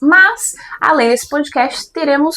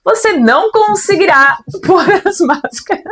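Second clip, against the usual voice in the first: flight attendant announcement; 3 semitones higher than usual. Acted. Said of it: "veio motivada ela hoje como comissária de bordo".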